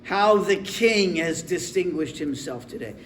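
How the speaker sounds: a touch of scorn; understated mocking disdain, as a disgusted wife; disdainful. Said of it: "just disdain for him".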